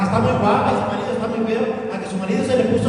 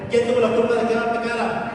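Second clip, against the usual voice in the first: higher, urging call; pushing for more; 4 semitones higher than usual. Shown as a demonstration. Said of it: "Más fuerte".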